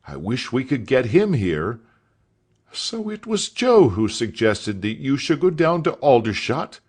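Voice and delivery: a hint of a delighted schoolmaster; enthusing master. A narrator's reading. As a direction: gush about your old trainer. Master enthuses about Joe.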